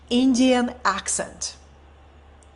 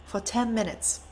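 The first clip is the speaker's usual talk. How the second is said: "ten" dropped to a near hush, much softer; hushed echo; 7 dB quieter than usual. Shown as a demonstration. Repeating the silence for the audience, hushed and soft. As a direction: let "For ten minutes" fall away softly.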